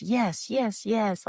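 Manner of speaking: imitating his eager, high yes yes yes; excited yes. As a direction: mimic a man thrilled at a house, lightly voiced. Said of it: "like, he is excited".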